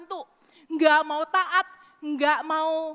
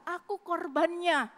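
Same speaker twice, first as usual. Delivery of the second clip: victim mentality. Retold or imitated. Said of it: "mentalitas korban".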